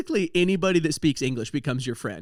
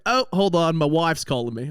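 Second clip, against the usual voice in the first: put-on Australian accent; 3 dB louder than usual. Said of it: "and he's like".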